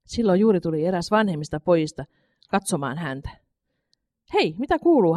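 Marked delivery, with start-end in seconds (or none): 4.3-5.2 friendly. A narrator's reading. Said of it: "hän sanoi ystävällisesti".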